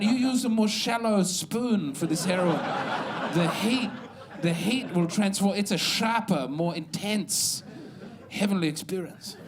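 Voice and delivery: a hint of a dealer playing connoisseur, laughing; mock heroin dealer. Dealer pitching heroin like a gourmet, lightly voiced. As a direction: savour the drug like fine coffee, lightly. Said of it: "A heroin dealer's gonna be saying".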